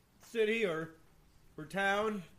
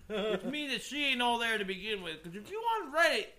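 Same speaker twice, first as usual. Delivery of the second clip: mocking rant; 6 semitones higher, 7 dB louder than usual. Real, not acted. Mocking rant about Reddit.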